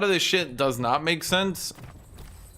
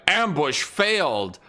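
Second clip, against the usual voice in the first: game announcement voice; 3 semitones higher, slower than usual. Retold or imitated. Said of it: "it's like".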